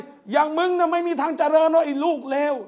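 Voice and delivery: slowed, imitating a furious parent cursing; mock angry curse. Preacher imitating an enraged parent cursing their child, mock angry. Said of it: "ด้วยความโมโหอารมณ์".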